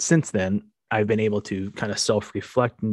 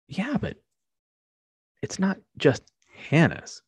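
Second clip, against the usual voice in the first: cheering her up; 2 semitones higher than usual. Retold or imitated. Dad talking up the birthday dinner to his daughter, coaxing. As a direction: talk up the dinner to lift her mood. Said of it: "really trying to cheer her up".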